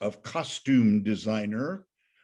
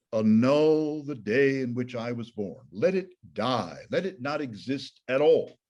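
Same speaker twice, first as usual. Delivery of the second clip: louder, forceful curse on his birthday; enraged Job; 4 dB louder than usual. Acted. Teacher voicing Job's furious curse, raised and forceful. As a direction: read it as Job raging at his fate. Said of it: "suddenly he's enraged and really is furious".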